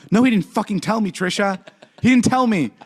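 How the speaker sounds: high-pitched indignant retelling; retold pissed-off denial. Telling Trisha that Jason didn't tell, retold indignantly. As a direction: replay your exasperated denial, pitch jumping up. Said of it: "I got so pissed".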